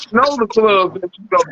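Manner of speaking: cartoon character, stretched out; old cartoon voice. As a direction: play it like an old cartoon dude. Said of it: "You sound like an old cartoon".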